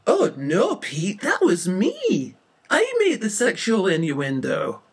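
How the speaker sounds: high, loud, dismayed admission; alarmed confession. Acted. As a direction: own up in a loud panic. Witness realizes she is to blame.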